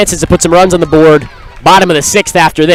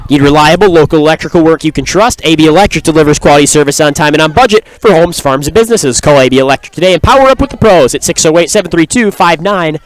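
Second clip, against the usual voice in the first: ad read; faster than usual. Acted. Sponsor read in play-by-play.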